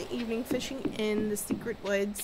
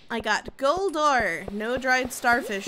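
excited; 6 dB louder, slower than usual. Real, not acted. Pleased at a catch.

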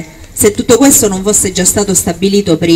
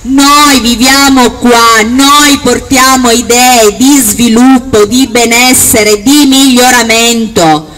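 booming balcony speech; 3 semitones higher, 3 dB louder than usual. Acted. Rally speech in the town square.

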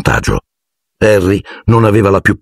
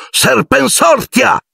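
much higher, slow, drawn-out incantation; shouted spell; slower than usual. A narrator's reading. Malfoy casting at Harry, shouting the spell slowly. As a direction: hurl the spell across the hall. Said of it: "gridò".

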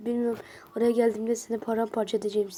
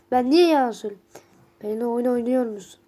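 indignant; 6 dB louder than usual. Acted. Oyundaki karakterle tartışıyor.

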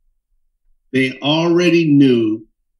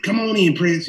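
high, sing-song flamboyant greeting; flamboyant hairdresser; 9 semitones higher than usual. Retold or imitated. Hairdresser Alice welcoming a young musician, high flamboyant voice. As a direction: welcome him in like a flamboyant stylist. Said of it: "Alice was very, very flamboyant".

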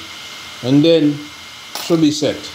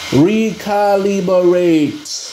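sounding out the word; 2 semitones higher, much slower than usual. Real, not acted. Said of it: "what's that word?".

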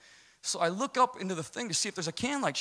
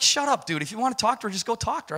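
buddy brushing him off; 7 semitones higher, faster than usual. Retold or imitated. Buddy Strozzi telling him to quit, high dismissive mock voice. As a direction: toss it off like an annoyed friend. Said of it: "He's like".

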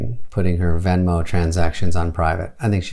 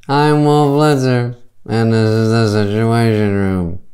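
lightly voiced TV anchor; news anchor voice; 2 semitones higher than usual. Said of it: "everyone but Wolf Blitzer".

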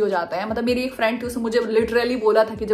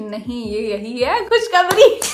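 slow, mock-solemn mother's verdict; drawn-out announcement of the good news; mom announcing good news; 4 dB louder, slower than usual. Mother telling daughter her period is good news, slow and solemn. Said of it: "she was like".

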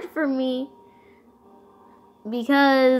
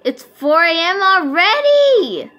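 loud high frightened cries; panicked scream; 3 semitones higher, 11 dB louder, much slower than usual. Real, not acted. Panicked reaction in horror game.

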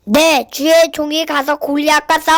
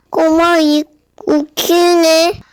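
mocking giant; much slower than usual. Goliath mocks David.

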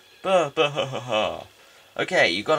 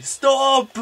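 sharp, much higher, louder yell; high shouted stop; 11 semitones higher, 8 dB louder than usual. Acted. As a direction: player yelling after fleeing enemy, high loud shout. Yelling at fleeing enemy.

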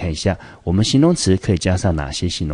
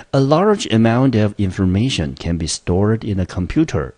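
example read aloud; 4 semitones higher than usual. Shown as a demonstration. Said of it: "来，我们来看例句".

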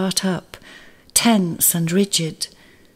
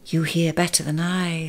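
sad; 4 dB quieter than usual. Acted. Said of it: "said Mole sadly".

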